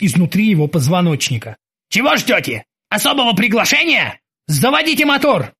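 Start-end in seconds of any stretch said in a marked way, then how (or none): 1.9-5.5 high-pitched commanding voice; impatient orders, rising in pitch; impatient captain. Acted. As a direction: chivvy the bosun into action.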